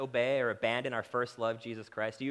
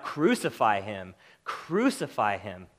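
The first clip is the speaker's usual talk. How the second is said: slow, loud, drawn-out cry of the mob; crowd crying out; 6 dB louder, slower than usual. Retold or imitated. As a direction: call it out like an angry crowd demanding death. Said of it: "they cried out".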